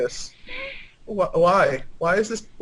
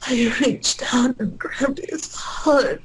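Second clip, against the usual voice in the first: sultry reading; 5 semitones higher than usual. Acted. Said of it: "as read by Pamela Anderson".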